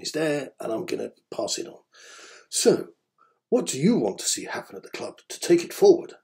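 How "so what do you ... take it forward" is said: reading the comment in the commenter's own lilt, lightly put on. Reading a fan's blog comment aloud to listeners, in his lightly imitated voice. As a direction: pass on his questioning intonation, not mocking. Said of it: "I'm gonna do it in that voice".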